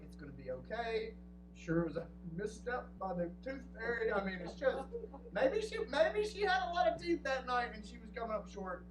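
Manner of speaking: calm him down gently; reassuring. Retold or imitated. Wife soothing about the tooth fairy.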